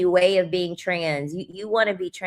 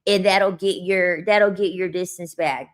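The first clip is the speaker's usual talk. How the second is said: mock looksmaxer advice. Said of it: "That's how they fucking sound".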